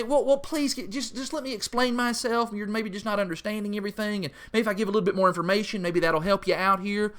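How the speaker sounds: high, mock pleading, rushing to explain; mock pleading explanation. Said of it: "Jesus does not say".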